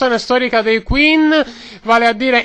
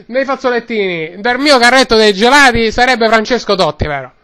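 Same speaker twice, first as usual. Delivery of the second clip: lightly voiced Roman street vendor; Roman-accented vendor rambling away; Roman ice-cream seller. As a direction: talk like a chatty Roman gelato man.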